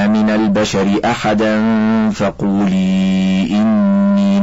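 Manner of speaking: slow melodic chanted recitation with long held vowels; Quran recitation. Acted. Sheikh recites the Quran verses about Maryam, slow melodic chant. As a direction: chant the verses slowly, drawing out each line's end.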